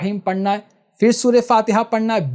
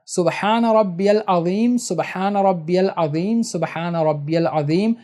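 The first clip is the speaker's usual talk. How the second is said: unhurried tasbih. Shown as a demonstration. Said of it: "تو آرام سے پڑھنا ہے".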